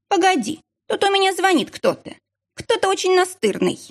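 high, tight annoyed voice; barely hidden irritation. A narrator's reading. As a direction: grudgingly break off, irritated. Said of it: "с трудом скрывая раздражение". (еле скрываемое раздражение, высоко)

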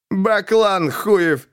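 very slow, hateful spat insult; a dragged-out insult full of hate; hateful snap. A narrator's reading. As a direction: spit the insult with hatred. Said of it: "с ненавистью огрызнулся Жарков".

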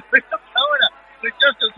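laughing. Real, not acted. Laughing mid-call.

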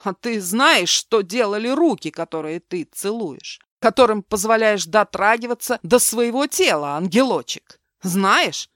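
angry demand. Acted. Mark confronts Milena about his hands.

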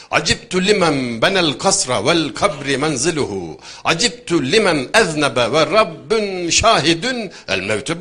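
loud, measured, sonorous declamation; drawn-out rhythmic Arabic chanting tone; Arabic verse recitation. Acted. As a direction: recite each line slowly and forcefully.

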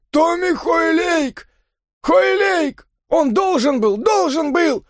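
very high, climbing hysterical scream; growing shriek. Acted. Father in hysterics over the jockey, growing shriek. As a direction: let it rise into hysteria. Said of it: "а голос становился всё визгливее".

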